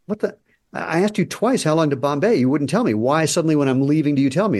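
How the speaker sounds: high, indignant exasperated rant; hammed-up disbelief at the farmer; mock outrage. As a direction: play the traveller fed up and offended. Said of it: "the guy stops and goes".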